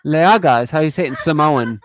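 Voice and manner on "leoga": amused laughing. Real, not acted. Amused by the Samoan translation.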